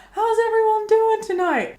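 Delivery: high, stretched-out call to the audience; high, projected stage greeting; singer hyping a crowd. Acted.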